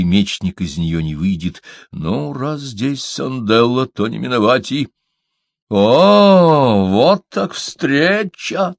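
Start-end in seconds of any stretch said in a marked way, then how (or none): 5.7-8.7 high, fierce hiss of rage; hissing like an angry cat. A narrator's reading. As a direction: spit it out like a furious cat. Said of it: "зашипела бы разъярённая кошка".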